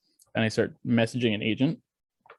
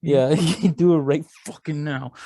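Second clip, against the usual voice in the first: mock threat; 2 semitones higher, 4 dB louder, faster than usual. Threatening the clerk for laughs.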